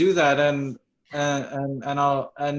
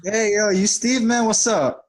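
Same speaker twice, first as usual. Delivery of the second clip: casual London street slang voice; London roadman accent. Pretend. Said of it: "We're not gonna talk like that".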